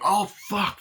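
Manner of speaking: high-pitched startled curse; acted shock. Film character reacting to a shooting, acted shock. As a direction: imitate a jolt of horror.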